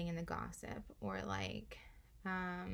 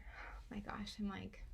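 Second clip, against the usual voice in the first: breathy, half-whispered, winded from talking; out of breath; 3 semitones higher, 4 dB quieter than usual. Real, not acted. Tarot reader to her viewers, winded and gasping softly. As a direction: catch your breath between words. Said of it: "I'm out of breath".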